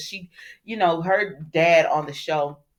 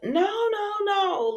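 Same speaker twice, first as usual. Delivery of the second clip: protesting; much slower than usual. Retold or imitated. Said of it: "she was like".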